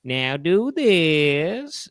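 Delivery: rising mock stage commands, last one slow; hammed-up magician instructing the audience. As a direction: lead the crowd in ever harder tricks. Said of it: "he goes".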